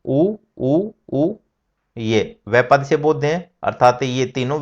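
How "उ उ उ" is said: उ said short, then long, then drawn out very long; chanting उ in rising length; short, long, prolonged u. Shown as a demonstration. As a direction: demonstrate the three lengths of उ. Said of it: "Hindi में स्पष्ट कर रखा है".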